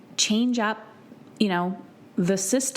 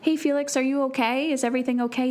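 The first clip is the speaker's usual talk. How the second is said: put-on higher-pitched check on a child; retold parental concern; 5 semitones higher, faster than usual. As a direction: gently ask after an upset child, as retold. Voices parents checking on son.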